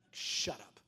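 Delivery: low, deadpan mock rebuff; dry retort. Preacher answers the Holy Spirit back, low and dry. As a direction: drop the pitch right down, unimpressed.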